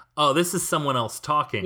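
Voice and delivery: ordinary talk, nothing marked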